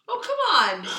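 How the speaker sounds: laughing, loud mock scoff. Mocking a friend who still believes in Santa, laughing.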